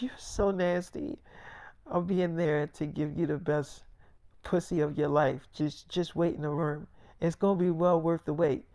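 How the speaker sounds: whisper-close seduction, hammed up; mock sultry hush.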